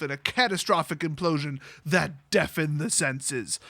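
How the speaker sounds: grand, solemn read of the book's prose; dramatic reading. Shown as a demonstration. Reading the original text aloud with mock grandeur. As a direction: read it like an overblown epic, slowing at the end. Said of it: "Let's back that up".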